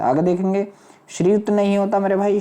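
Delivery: usual speaking voice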